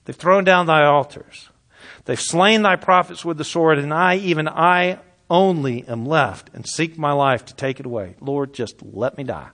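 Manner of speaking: loud impassioned reading fading to a plea; preaching scripture. Acted. Preacher reading Elijah's lament, loud then fading. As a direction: proclaim it, then sink to despair.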